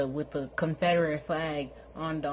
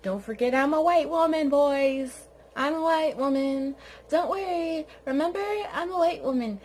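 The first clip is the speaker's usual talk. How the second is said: high, loud, hammed-up sing-song; mock white lady; 6 semitones higher, 4 dB louder than usual. Mocking her plea to the reporters, high and loud. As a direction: ham it up, pitched up and loud. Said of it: "she all of a sudden put on her".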